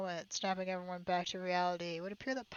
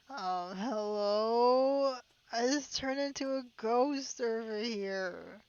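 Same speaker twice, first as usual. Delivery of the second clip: slow, drawn-out spooky ghost call; 3 semitones higher, 5 dB louder, much slower than usual.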